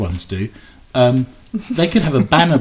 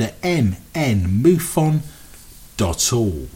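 smooth station announcement read; radio announcer. Acted. Reads radio show announcements.

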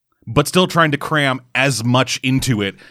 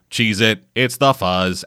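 lower, droning robot monotone; deadpan robot monotone voice; 3 semitones lower, slower than usual. Retold or imitated. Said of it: "in this fucking monotone voice go".

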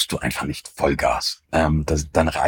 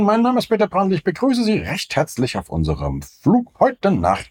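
pilot on the cockpit PA, much higher; captain's cabin announcement; 7 semitones higher than usual. Retold or imitated. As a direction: read it like an onboard announcement over a cockpit headset. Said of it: "die Ansage macht".

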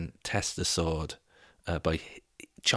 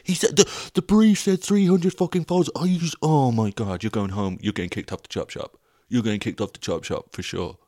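much higher, louder exasperated yelling; furious mock yell at the telly; shouting at the TV; 5 semitones higher, 4 dB louder than usual. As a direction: rant at a contestant on TV. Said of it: "I'm shouting at the T V being like".

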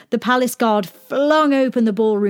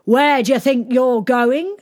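high challenge from a guard; demanding; 6 semitones higher, 4 dB louder than usual. A narrator's reading. Palace guards stop the mucky pony rider, demanding. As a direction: challenge them, voice raised in pitch. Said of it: "they demanded".

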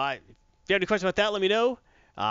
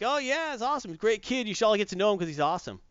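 much higher, bubbly boasting; enthusiastic hero; 8 semitones higher than usual. Retold or imitated. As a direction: gush about your little brother. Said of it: "But he's like".

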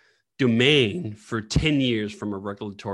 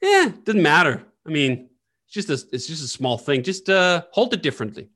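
dismissive brush-off; 4 semitones higher, 3 dB louder than usual. Retold or imitated. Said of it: "And you go".

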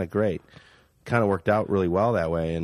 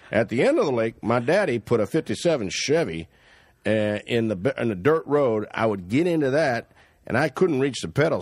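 put-on backwoods Canadian accent. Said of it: "kind of doing his accent".

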